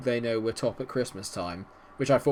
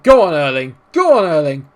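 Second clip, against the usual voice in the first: loud, urgent cheering on; excited yell; 5 semitones higher, 16 dB louder than usual. Real, not acted. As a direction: scream the striker through on goal. Urging on his striker.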